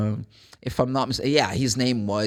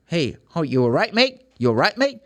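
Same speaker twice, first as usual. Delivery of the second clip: British greeting; 3 semitones higher than usual. Shown as a demonstration. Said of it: "in England, normally people say mate".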